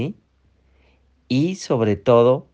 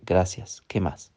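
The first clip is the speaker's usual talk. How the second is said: calm grateful reply; 4 semitones lower, 7 dB quieter than usual. Shown as a demonstration. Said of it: "Y tú dices internamente".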